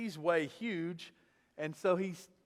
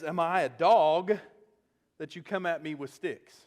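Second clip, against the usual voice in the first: scornful taunt; 5 dB louder than usual. Retold or imitated. Goliath's taunt read with force.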